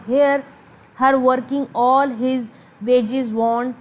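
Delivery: very slow, measured recitation; soliloquy reading. Acted. Teacher reads old Shakespeare text to students, slow recitation. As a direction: read the verse out with drawn-out words.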